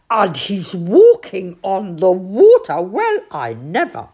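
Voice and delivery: shouted. A narrator's reading. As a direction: shout in astonishment. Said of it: "shouted Badger".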